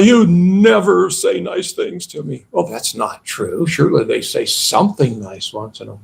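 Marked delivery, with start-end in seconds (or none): 0.0-2.5 mock aggrieved complaint, lightly acted; emotional exaggerating. One person in an argument accusing the other, mock emotional. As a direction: act out an overblown accusation, only mildly heated. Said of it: "They become very emotional. They start exaggerating".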